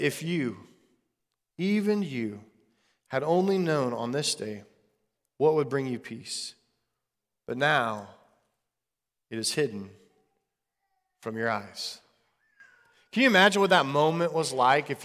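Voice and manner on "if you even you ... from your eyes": hushed and halting, low with sorrow; low, quiet lament, broken into short phrases; grieving. A narrator's reading. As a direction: read it slowly and softly through grief, with long pauses. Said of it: "he wept over it".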